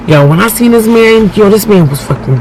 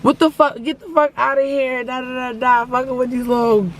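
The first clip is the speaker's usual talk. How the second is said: gangster yelling; 5 semitones higher, 9 dB quieter than usual. Retold or imitated. Mom's gangsta friends yelling at boys.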